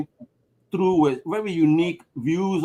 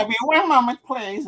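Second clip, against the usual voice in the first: fake answering voice; 6 semitones higher than usual. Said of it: "make believe and shit".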